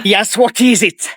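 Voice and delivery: low, slow put-on phone answer; languid, low-pitched teacher character; English teacher.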